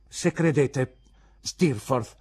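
indignant teacher's rebuke; stern confrontation. Acted. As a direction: take the pupil to task.

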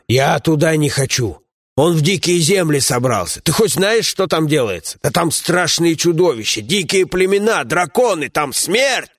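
gruff dwarf companion. Acted.

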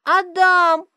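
put-on high, loud little girl calling out; squealing child's call; child yelling. A narrator's reading. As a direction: call him across the hall. Daughter yells his name.

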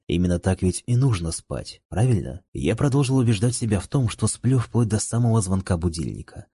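plain reading voice

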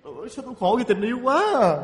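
hammed-up lovesick moaning; tearful lament. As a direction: wail about your love life through mock tears. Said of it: "tự nhiên khóc rồi". (khóc lóc than thân)

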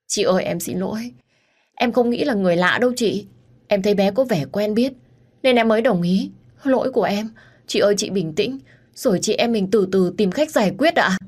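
high-pitched, whimpering apology; tearful. Acted. Teacher apologising to the missing child's mother, tearful. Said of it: "Cô giáo của con lúc này cũng thút thít khóc".

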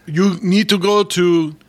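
lightly voiced Austrian bodybuilder; a hint of a heavy Austrian movie-star voice; Arnold Schwarzenegger. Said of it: "Arnold came to promote your workout thing".

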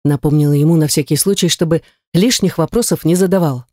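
ordinary delivery

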